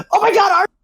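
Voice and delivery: high mock squeal; mock scream. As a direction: squeal it like an excited girlfriend. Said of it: "scream as autistically and as loud as possible".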